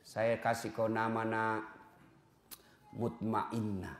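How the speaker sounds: put-on name the child as if calming them; tender naming of a baby; gentle naming. Shown as a demonstration. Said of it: "demonstrating naming a child".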